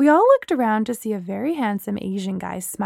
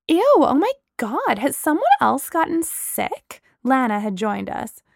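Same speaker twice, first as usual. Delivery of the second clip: disgusted; 5 semitones higher than usual. Acted. Lana disgusted at toilet.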